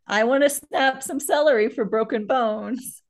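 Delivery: talking while holding a bloody nose; nosebleed. Real, not acted. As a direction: speak while tending a nosebleed. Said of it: "I'm attending to my bloody nose".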